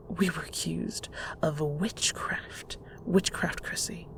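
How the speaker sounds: put-on a mother recalling old persecution, hushed; hushed emphasis. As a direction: lean in and whisper it darkly. Mother stressing the danger.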